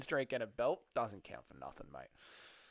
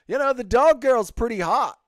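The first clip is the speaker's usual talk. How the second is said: high, loud mock voice of Nacho; imitating Nacho; 9 semitones higher, 11 dB louder than usual. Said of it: "No, Nacho's an Aussie".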